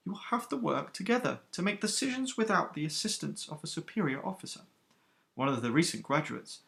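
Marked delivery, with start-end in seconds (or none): 0.1-4.6 the stern captain easing off a little, a bit quieter; a touch softer. Acted. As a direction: soften slightly while still in command. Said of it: "her tone now a soft, touch softer".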